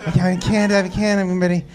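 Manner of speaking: dainty nervous voice. Retold or imitated. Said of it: "She was like".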